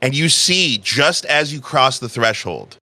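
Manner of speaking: measured storytelling with long pauses; game master narration. A narrator's reading. Game master describing a tense reunion, measured narration. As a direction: unfold the scene slowly, phrase by phrase.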